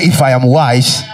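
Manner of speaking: loud preacher's prompt to repeat. Shown as a demonstration. Preacher urges congregation who cannot be heard, loud call. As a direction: project it firmly to the whole congregation. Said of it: "Oh, I can't hear you".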